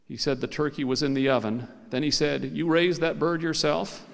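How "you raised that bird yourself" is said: "You raised that bird yourself" slowed, lifting into a question; questioning tune. A narrator's reading. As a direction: ask it slowly, rising on "yourself". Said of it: "It was a question".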